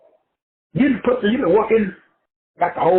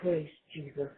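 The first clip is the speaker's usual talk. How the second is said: mock churchy voice; 3 semitones lower, 11 dB quieter than usual. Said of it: "When I was a Christian, they used to be".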